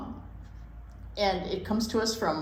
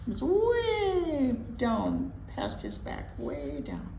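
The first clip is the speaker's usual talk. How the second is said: put-on reading to children. Host reading chipmunk book to listening kids, lilting story-time voice. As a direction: read it aloud like story time for little ones.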